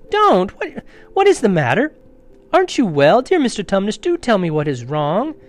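high, loud, pleading alarm; great distress. A narrator's reading. Lucy pleads with the sobbing fawn, distressed. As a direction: beg anxiously, starting high and loud. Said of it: "said Lucy in a great distress".

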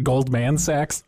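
"Goldman" drawn out slowly with a full MAN; drawn-out name. Pretend. Joking it as a porn name.

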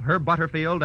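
normal talking voice

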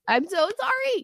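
raspy, strained sick voice; hoarse voice. Real, not acted. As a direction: speak through a sore throat. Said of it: "my voice sounding like this".

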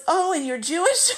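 surprised question. Retold or imitated. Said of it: "She goes".

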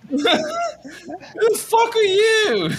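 even squeakier, stretched-out heckling yell; very high, slow mock yell; yelled heckle. Game master repeating the heckler, very high yell. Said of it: "somebody just yell from the back".

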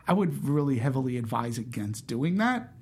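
mildly stern, measured warning. Retold or imitated. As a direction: imitate a stern woman's restrained advice. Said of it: "she was being very stern".

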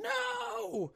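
high, drawn-out mock "no" of despair; imitated anguished cry. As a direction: wail it like a movie father, without real volume. Retold father hits the ground.

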